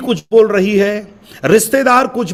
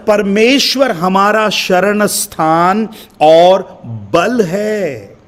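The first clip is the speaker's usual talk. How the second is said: slow, drawn-out reading of परमेश्वर हमारा शरण स्थान; scripture reading; much slower than usual. Acted. Preacher reading the psalm's first verse aloud, slow and drawn out. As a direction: read the verse slowly, savouring it. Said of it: "पहली आयत को मैं पढ़ रहा हूं".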